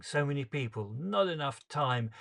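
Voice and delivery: anguished near-scream. Acted. Father stuck in the crowd while his daughter dies, anguished and loud. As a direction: fight down the urge to scream. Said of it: "I feel like screaming".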